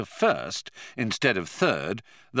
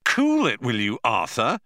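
demanding; 3 semitones higher, 4 dB louder than usual. A narrator's reading. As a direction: cut Arthur off hard. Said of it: "demanded Ford".

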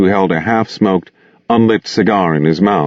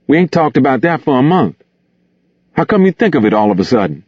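put-on higher-pitched young-pal character voice, questioning; Gus, surprised objection; 7 semitones higher, faster than usual. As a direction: push back in a high character voice.

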